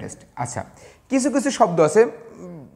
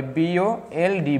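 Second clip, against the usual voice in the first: slow, letter by letter; spelling out; much slower than usual. Shown as a demonstration. Teacher spelling bold for the class, slow letter-by-letter. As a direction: spell it slowly for students.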